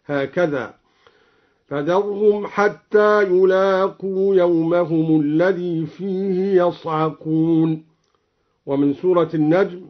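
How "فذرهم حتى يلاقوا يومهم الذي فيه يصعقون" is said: slow chant with يصعقون said yasʕaqun, opening fatha; slow recitation with yasʕaqun. Shown as a demonstration. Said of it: "قرأ بفتح الياء من صعق هكذا".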